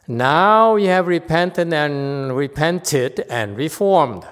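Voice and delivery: slow, emphatic reading of a text; deliberate recitation to a class; reading aloud. Real, not acted. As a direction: read it out slowly with weight. Reads the text aloud slowly, emphatic.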